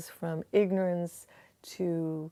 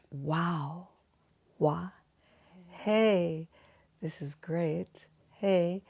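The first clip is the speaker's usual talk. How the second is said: gentle delight; much slower than usual. Shown as a demonstration. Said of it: "with a nice, maybe, hey".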